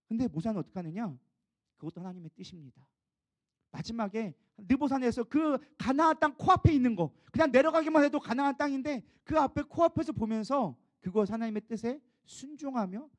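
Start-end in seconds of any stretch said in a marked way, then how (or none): 3.7-13.1 emphatic preaching. Acted. Emphatic preaching about Nebo.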